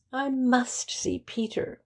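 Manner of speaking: put-on a young woman's anxious cry; urgent cry. A narrator's reading. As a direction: press hard, she must see him now. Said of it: "cried Lady Mary".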